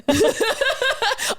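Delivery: high bright cackle; laughing at her own impression; burst of laughter. Real, not acted. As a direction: let out a big laugh. Cohosts cracking up.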